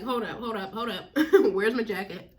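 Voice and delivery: laughing mock alarm. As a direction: laugh through the words. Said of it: "you like".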